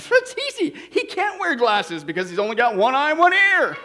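high-pitched, mock-smug opening; smug trainee. Third trainee explaining his deduction to the policeman, breezily smug. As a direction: toss off the punchline as obvious.

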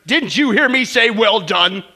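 mock-furious customer demanding his steak; barking complaint. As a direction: snap it at the waiter like a grumpy diner. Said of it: "he barks back at the waiter".

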